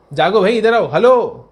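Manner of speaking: loud wake-up call. Real, not acted. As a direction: rouse the dozing students. Teacher calls out to sleepy students.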